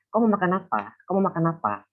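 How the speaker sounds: high Sumatran intonation, quick and falling; Sumatran accent. Shown as a demonstration. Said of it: "a bit of differences in intonation".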